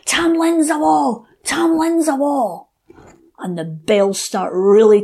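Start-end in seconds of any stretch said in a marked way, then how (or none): 0.1-2.7 high, slow, drawn-out shout of the fairy crowd. Acted. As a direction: call it out high and long like a whole fairy host. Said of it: "all the fairy people start shouting".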